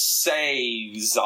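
Caesar said slowly as SAY-zar; drawn-out pronunciation of Caesar. Shown as a demonstration. Podcast guest teaching his name, Caesar slowly as SAY-zar. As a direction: stretch Caesar out with a long "say" at the front. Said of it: "not Caesar".

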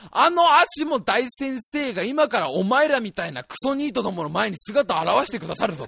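hammed-up rude showman hailing a star; bombastic presenter. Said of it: "お兄さんが言ってるわけですよ".

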